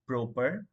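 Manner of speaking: proper said like "broper"; proper with no puff on the first p; wrong P sound. Shown as a demonstration. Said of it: "Some even says like".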